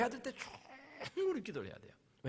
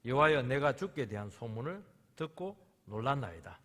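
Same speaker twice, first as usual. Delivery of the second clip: scripture reading; 3 semitones lower, 5 dB louder than usual. Acted. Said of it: "선지자가 찬양하는 이유".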